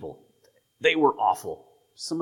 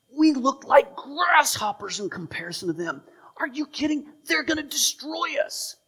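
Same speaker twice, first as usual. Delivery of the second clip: high, fearful panicky voice; high panicky spies; frightened spies. Retold or imitated. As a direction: squeal it out like scared men.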